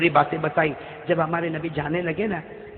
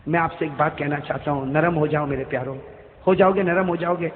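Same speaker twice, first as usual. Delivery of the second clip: gentle appeal; 3 semitones lower than usual. Real, not acted. Preacher asking his dear listeners to be gentle, tender.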